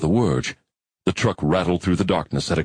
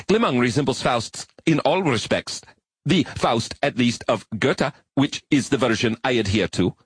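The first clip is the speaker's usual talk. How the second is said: agitated arachnid; 6 semitones higher than usual. Acted. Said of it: "Rustling its antennae in agitation".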